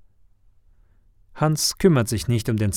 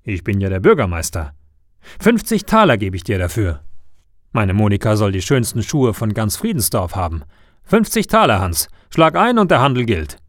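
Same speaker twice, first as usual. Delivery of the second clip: louder, insistent haggling mayor; pompous mayor; 5 dB louder than usual. Acted. Mayor pushing the shoemaker to sell, insistent and louder. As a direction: press the deal like a self-important mayor.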